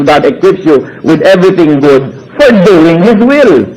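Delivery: slow, even verse reading; scripture reading again. Acted. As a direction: read the verse steadily. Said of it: "sabi ng Hebrews thirty-one".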